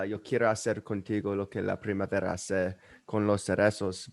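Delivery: quick, unshowy recital in Spanish; hurried quote in Spanish; rushed Spanish. Real, not acted. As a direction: rattle the Spanish line off quickly. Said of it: "I said that really fast".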